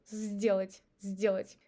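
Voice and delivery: сделать with s said as z; сделать said zdelat; сделать starting with z; voiced s. Shown as a demonstration. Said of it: "we pronounce it as Z".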